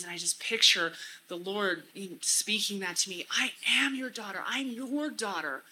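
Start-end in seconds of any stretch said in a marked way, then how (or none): 3.3-4.4 AM lifted and leaned on; stress on AM. Shown as a demonstration. Speaker meditating on being God's daughter, stressing AM. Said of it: "emphasizing different words to really get that". 4.5-5.6 YOUR stretched out, slowly; stress on YOUR. Shown as a demonstration. Speaker meditating on being God's daughter, stressing YOUR. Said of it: "emphasizing different words to really get that".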